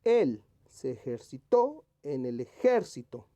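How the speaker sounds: Él, ejerciTÓ and eJÉRcito each punched slowly; ejercitó stressed last, ejército stressed second, both exaggerated; stress on accented syllables. Shown as a demonstration. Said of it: "que esté correctamente escrita".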